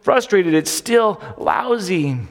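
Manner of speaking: slow, drawn out grumbling; frustrated complaint. Retold or imitated. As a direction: sound fed up with God. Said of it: "we get confused and we say".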